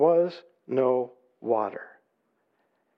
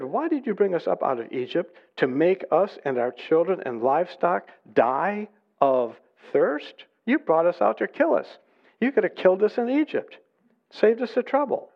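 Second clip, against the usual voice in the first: accusing protest, climbing higher; grumbling complaint; 4 semitones higher than usual. Acted. Thirsty people blame Moses for Egypt, mounting grumble. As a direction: build the grievance to a high-pitched jab. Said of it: "they grumbled against Moses".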